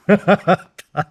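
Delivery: sudden loud high laugh; burst of laughter. Real, not acted. Telling the dying dad story, bursts out laughing. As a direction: crack up at the absurd confession. Laughing at dad's deathbed confession.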